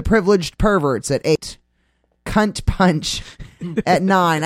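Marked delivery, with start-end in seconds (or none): 2.2-4.4 trying not to laugh. Real, not acted. Host reads out a rude band name, giggling. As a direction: laugh slipping out after the name. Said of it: "can't even say that name without laughing".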